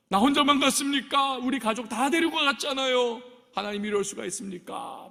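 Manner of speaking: missionary yelling at God in the car, furious; angry complaint. Retold or imitated. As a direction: shout a grievance at God. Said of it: "소리소리 지르면서 땡깡을 부리고 분노를 표출하고".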